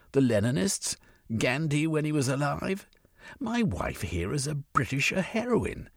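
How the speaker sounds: put-on smooth it over, old boy; placating English gentleman. Cornucope placating Bain.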